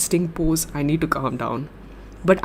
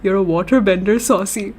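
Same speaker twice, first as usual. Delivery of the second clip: loud, lightly voiced film-giant impression; half-hearted impression of a wizarding-world character; Hagrid; 3 semitones higher, 5 dB louder than usual. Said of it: "read that in Professor Dumbledore's voice. Not Dumbledore ... Hagrid".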